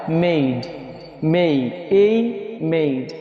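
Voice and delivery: "मेड, ए मेड" with a drawn-out "ए-ई"; long A vowel. Shown as a demonstration. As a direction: slowly stretch "मेड" like English made. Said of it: "ये हो जाएगा".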